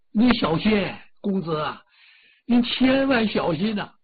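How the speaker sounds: worried servant calling out a warning; calling out anxiously. Acted. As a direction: shout after him to be careful. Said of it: "他那儿就嚷嚷".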